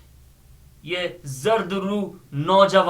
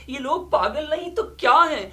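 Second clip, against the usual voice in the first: higher, quick scornful quote; mocking the master; 8 semitones higher, faster than usual. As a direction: toss off the boss's sneer, laughing. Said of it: "ہمارے سرکار کہہ رہے تھے". (ہنستے ہوئے سرکار کی طنزیہ نقل، اونچی آواز)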